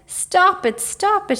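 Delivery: a tickled dragon crying out to stop; crying out through laughter. A narrator's reading. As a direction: beg between giggles. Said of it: "he cried".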